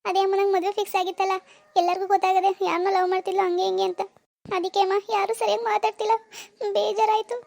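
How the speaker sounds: hurt daughter's weepy explanation; acted sorrowful complaint; upset, tearful. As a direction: explain it sadly to mother. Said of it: "ಬೇಜಾರ್ ಮಾಡ್ಕೋಬೇಡ ಬಿಡು".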